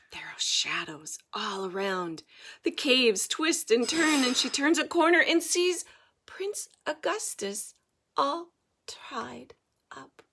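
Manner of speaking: storyteller hushing as the heroine nears the cave; hushed storytelling. A narrator's reading. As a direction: draw them in with a whisper. Suspenseful story narration.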